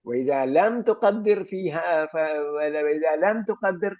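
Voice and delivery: slow textbook dictation of the rule; slow reading aloud. Shown as a demonstration. Teacher reading the grammar text to the class, slowly. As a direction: read each Arabic word slowly and deliberately.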